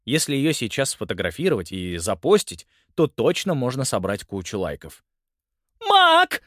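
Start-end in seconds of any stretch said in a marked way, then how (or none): 5.9-6.4 очень высокий громкий визг; в ужасе зовёт мужа; испуганный вопль. A narrator's reading. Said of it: "завопила женщина". (женщина в ужасе вопит, увидев мышь)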